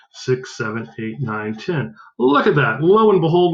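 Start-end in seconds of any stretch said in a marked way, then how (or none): 2.2-3.5 higher and louder, showing off the reveal; a teacher's gleeful ta-da; delighted. Real, not acted. Teacher delighted at regrouped ones.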